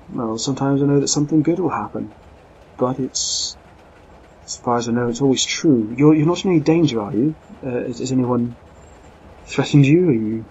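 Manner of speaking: the lady insists, alarmed and forceful; urgent lady. Acted. Lady urgently warns of danger.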